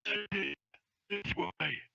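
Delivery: high call without real volume; mock shout to get their attention; distant scream. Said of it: "you scream, uh, out as loud".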